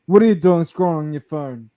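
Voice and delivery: loud barking gym-bro commands, imitated; mock gym bro. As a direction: yell it like a fitness influencer mocking the viewer. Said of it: "He's like".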